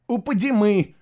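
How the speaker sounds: quick, high, loud reply; hurried. A narrator's reading. Boy explains as soldiers approach, hurried. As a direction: blurt out the answer in haste. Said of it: "торопливо объяснил мальчик".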